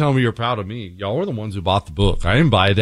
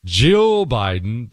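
slow drawn-out name; much slower than usual. Real, not acted.

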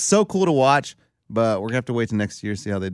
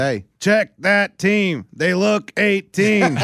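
mock suspicious parent; 5 semitones higher, much slower than usual.

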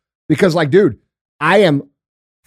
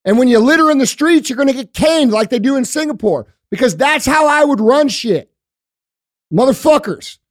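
higher, fiery stump-speech rant, building to a shout; mock campaign speech; 4 semitones higher than usual. Imagined candidate promising brutal justice, higher, shouting rally voice. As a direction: play a hardline candidate firing up a crowd. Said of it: "someone like me will come along and say".

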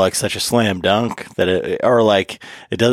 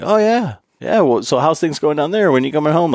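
fishing for answers; 5 semitones higher than usual. Retold or imitated.

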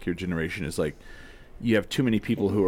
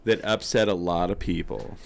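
put-on drunk girl voice; 8 semitones higher, 4 dB louder than usual. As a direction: slur it like a tipsy girl. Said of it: "that's my drunk girl".

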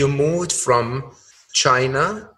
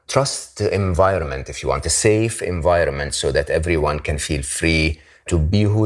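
measured host read, lower than conversation; guest introduction read; 7 semitones lower than usual. Acted. Host introduces happiness expert to listeners, measured introduction read. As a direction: present the guest's biography in a composed, scripted way.

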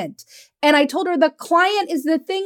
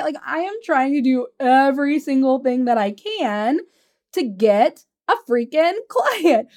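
retold frustration, emphatic, a laugh breaking in; frustrated client. Client pleading effort to her coach, mock frustrated. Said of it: "she was so frustrated with me".

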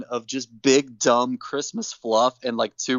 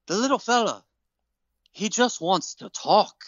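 Sheamus voice; 2 semitones higher than usual. Retold or imitated. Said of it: "He's like".

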